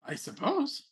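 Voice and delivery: a hint of a haughty rabbit noble; Rabbit Prince voice. Prince presses the player.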